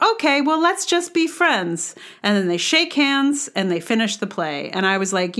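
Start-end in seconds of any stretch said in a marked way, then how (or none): 0.0-1.9 childlike mock. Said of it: "they say something like".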